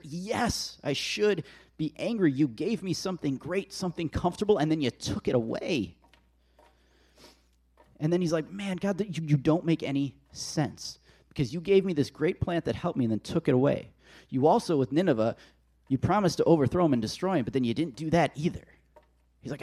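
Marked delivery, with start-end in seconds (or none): 0.0-5.9 higher-pitched, mildly desperate protest. Acted. Jonah protests to God over the lost plant, desperate. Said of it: "And Jonah with a desperate". 8.5-18.7 exasperated complaint, starting high and stumbling; frustrated. Acted. Jonah complains to God that nothing makes sense, frustrated. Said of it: "He is just straight up frustrated".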